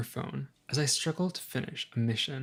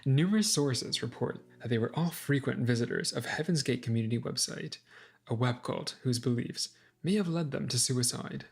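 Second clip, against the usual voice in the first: crisp TV news anchor read; newscaster voice. Pretend. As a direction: announce it like breaking news. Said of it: "Newscaster voice, I'm trying it out".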